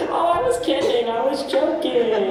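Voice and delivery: hammed-up excuse; mock backpedaling. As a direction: laugh it off nervously. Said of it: "Do you say".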